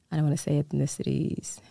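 unsure, half to yourself, under the breath; whispered aside. Real, not acted. Guest whispers while searching for the right word. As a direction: drop to a whisper for the doubt.

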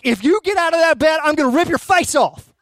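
hammed-up angry threat, pitched high and loud; freaking-out dad. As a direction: act out a parent losing it at bedtime. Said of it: "swells up and I freak out".

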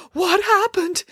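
very high wailed question; distraught cry. A narrator's reading. Woman looks about for an explanation, crying out. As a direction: demand it in melodramatic anguish. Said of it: "cried the woman".

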